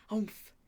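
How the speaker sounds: short grunt on impact; pained oomph. A narrator's reading. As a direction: grunt as if crashing into stone. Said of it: "with a painful".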